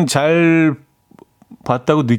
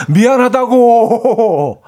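higher, slow whiny 고 at the end; sulky teen drawl; 8 semitones higher, 4 dB louder, much slower than usual. Acted. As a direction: sulk it out like a moody teen. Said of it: "중이 병 애들이 하는 그 톤".

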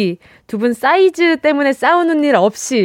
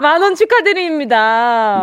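slower, settled repeat of the congratulations; calm congratulations; 2 semitones higher, slower than usual. Real, not acted. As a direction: say it again slowly and sincerely. Repeating the prize announcement. (차분하고 천천히 다시 축하)

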